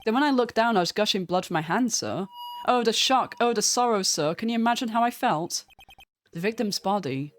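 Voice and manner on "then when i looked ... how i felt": hammed-up shock and sorrow, a bit higher; milk the tragedy for sympathy; melodramatic patrolman. Meekins hams up his sorrow.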